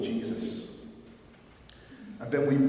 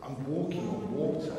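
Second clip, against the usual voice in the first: "I'm walking on water" softer, stunned and scared; dawning fear; 5 dB quieter than usual. Retold or imitated. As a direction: breathe "walking" out as the fear sets in. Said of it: "turns to panic and fear".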